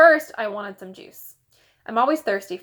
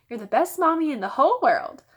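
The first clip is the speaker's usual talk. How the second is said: put-on higher, pleading little boy; flattering child; 6 semitones higher, 4 dB louder than usual. A narrator's reading. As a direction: lay the flattery on thick. Fudge flattering his mother.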